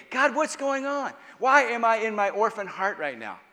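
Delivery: high, loud searching question; urgent plea asking God what's wrong; pleading to God. Retold or imitated. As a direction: cry out to God bewildered. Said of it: "I ask myself".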